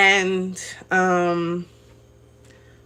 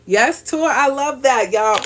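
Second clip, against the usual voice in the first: a burst of real delight, higher and brighter in pitch; excited; 5 semitones higher, 3 dB louder than usual. Real, not acted. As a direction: jump in with sudden joy at the comment. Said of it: "Ooh, I got excited".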